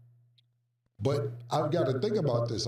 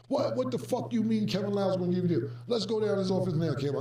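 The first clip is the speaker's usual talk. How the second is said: fast, higher, heated comeback; heated retort; 4 semitones higher, faster than usual. Retold or imitated. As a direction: fire it back fast and indignant. Dame angrily disputes deal.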